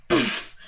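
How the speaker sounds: puffed-out impact noise; imitated poof. Narrator mimics the Goomba's hit, airy poof. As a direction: blow out a short "poof". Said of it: "the Goomba's just like".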